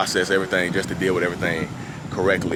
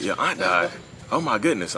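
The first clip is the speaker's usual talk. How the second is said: high-pitched mock disbelief; retold gasp-like question, voice shooting high; imitated shock; 8 semitones higher than usual. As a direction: imitate someone startled by bad news, pitch jumping up. Retelling wife's shocked reaction to death news.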